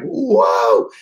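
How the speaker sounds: drawn-out, high, loud whoa; big alarmed "whoa"; startled whoa. Retold or imitated. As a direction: let out a swooping "whoa". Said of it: "the boat just goes like".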